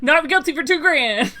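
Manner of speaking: laughing auctioneer call. Pretend. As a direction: sell the verdict like a lot. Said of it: "practicing his auctioneer voice".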